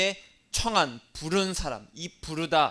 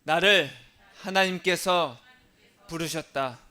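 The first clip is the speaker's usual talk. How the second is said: louder, with 하나님께서 drawn out; call-and-repeat declaration; 4 dB louder than usual. Shown as a demonstration. Pastor has the congregation repeat after him, loud. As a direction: proclaim it for everyone to echo. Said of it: "따라하겠습니다".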